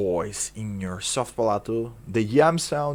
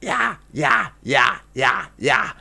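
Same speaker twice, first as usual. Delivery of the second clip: high yeah. Shown as a demonstration. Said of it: "You can do it high notes too".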